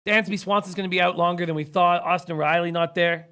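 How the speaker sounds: hoarse, losing his voice; rough, worn-out voice from screaming. Real, not acted. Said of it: "you sound like you're getting sick".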